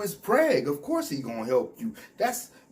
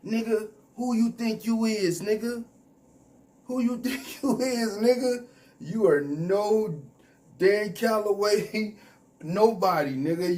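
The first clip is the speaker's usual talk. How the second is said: scornful challenge; 6 semitones higher than usual. Real, not acted. Calling out the YouTuber.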